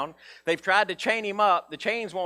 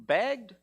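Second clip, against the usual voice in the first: Begged? raised high, lingering on the word; stressed question on begged; 5 semitones higher than usual. Shown as a demonstration. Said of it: "That doesn't mean he asked once".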